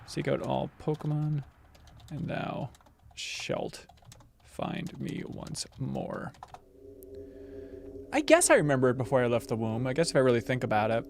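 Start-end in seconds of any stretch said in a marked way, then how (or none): 0.1-6.3 slow whispered reread of the prophecy. Acted. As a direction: breathe it out as a secret. Rereading the god's line.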